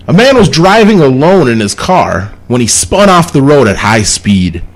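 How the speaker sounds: measured read with pauses between clauses; reading a riddle aloud. Real, not acted. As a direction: lay out the puzzle clause by clause. Reads out a riddle.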